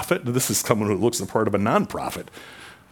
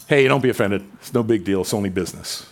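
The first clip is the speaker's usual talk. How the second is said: casual brush-off; faster than usual. Shown as a demonstration. Everyday speaker shrugging off hurt feelings, breezy and casual. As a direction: toss it off like a business apology. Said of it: "We use "be offended" like".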